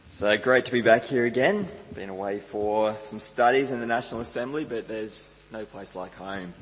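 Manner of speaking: hoarse from a cold; croaky voice, pushing through a cold. Real, not acted. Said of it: "I sound a little bit croaky".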